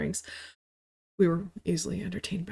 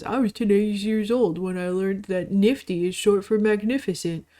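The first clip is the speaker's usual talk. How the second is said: mocking meme quote. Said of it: "saw another fucking meme".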